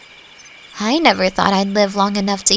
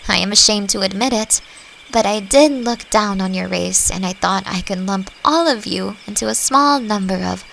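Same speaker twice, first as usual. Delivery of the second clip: ordinary talk, nothing marked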